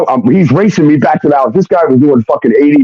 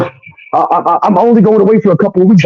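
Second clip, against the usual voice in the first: pitched-up, faltering imitation of her excuse; mock stammering girlfriend; 6 semitones higher than usual. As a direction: play her stumbling over the lie, voice lifted.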